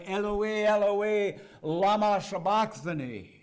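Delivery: loud, high cry of abandonment; anguished cry. Retold or imitated. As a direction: cry it out like a forsaken orphan. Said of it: "he cries that orphan's cry".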